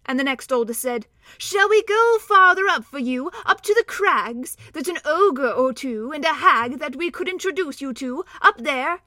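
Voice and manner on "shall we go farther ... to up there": higher, louder sly dwarf voice. Acted. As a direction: offer the ogres like a sly dwarf. Next dwarf offers ogres.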